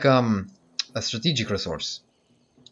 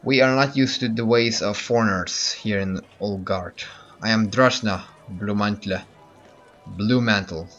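light mock Russian accent; a hint of Russian accent on the leader's lines. Gamer voicing the Olgard leader, light Russian accent. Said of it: "my Russian accent kicked in".

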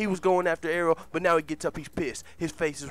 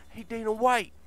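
high, louder heckle building to a shout; mock taunting yell; 8 semitones higher, 7 dB louder than usual. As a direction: taunt him, rising higher and louder to the end. Acted taunt shouted at Dana White.

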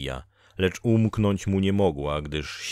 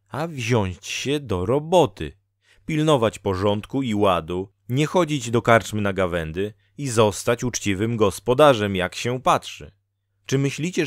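slightly louder, raised lecturing woman; Dola, admonishing fate-woman; 4 semitones higher, 4 dB louder than usual. Acted. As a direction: lightly voice a woman telling him off. (lekko podniesiony, pouczający głos Doli)

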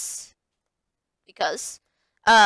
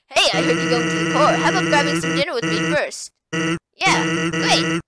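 lower, lazy skeleton voice; Sans voice; 6 semitones lower than usual. Acted. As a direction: drop it low and laid-back. Reads Sans dialogue.

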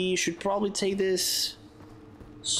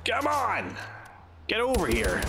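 excited high call; high urging shout; 5 semitones higher than usual. Real, not acted. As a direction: urge it on, pitched up. Urging in a fight.

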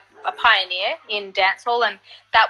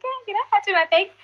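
high, fast and cocky; mock confident reply; playful bravado; 10 semitones higher, much faster than usual. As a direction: brush it off breezily. Her cocky reply voiced.

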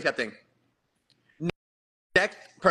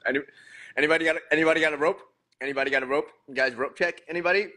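mock desperate plea; much faster than usual. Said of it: "jokey rope request after embarrassment".

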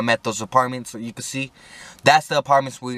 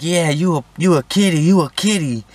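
high, louder teasing chant; mocking taunt; 6 semitones higher, 4 dB louder than usual. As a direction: jeer at the scared cop. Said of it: "They're like".

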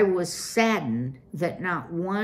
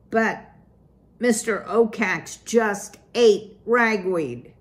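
louder, raised pitch, words bursting out; blurted out; 3 semitones higher, 5 dB louder than usual. Acted. Poppy blurting the news to her parents, louder and higher. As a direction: blurt the bad news before you can stop. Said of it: "Poppy blurted out".

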